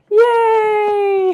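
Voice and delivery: loud, high cheer. Retold or imitated. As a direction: celebrate loudly. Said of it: "'cause we went".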